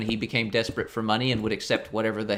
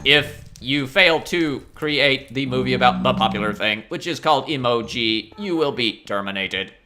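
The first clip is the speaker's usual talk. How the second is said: flat mechanical robot voice. Retold or imitated. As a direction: deliver it like a cold machine. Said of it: "the robot goes on to just be like".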